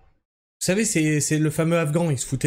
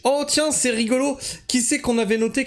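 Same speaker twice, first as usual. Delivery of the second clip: higher, sarcastic oh how funny; mock surprise; 7 semitones higher than usual. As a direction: feign delighted surprise. Sarcastic discovery.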